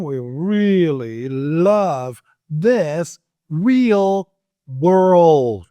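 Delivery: "We really love this real world" stretched out very slowly. Shown as a demonstration. Teacher slowing right down after saying slow down. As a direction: crawl through it word by word. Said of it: "Slow down".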